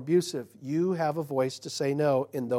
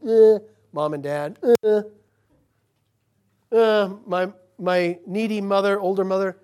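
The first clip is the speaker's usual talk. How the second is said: put-on dismissive child; 4 semitones higher, 8 dB louder than usual.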